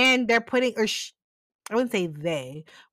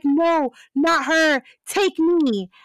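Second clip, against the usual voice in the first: desperate plea; 5 semitones higher, 4 dB louder, much slower than usual. Retold or imitated. Sam sacrificing himself to demon.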